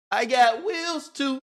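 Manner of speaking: high, drawn-out holler; hyped mock boast, stretched out; playful imitated boast. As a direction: call out the brag slowly and high. Repeats quarterback's boast in play.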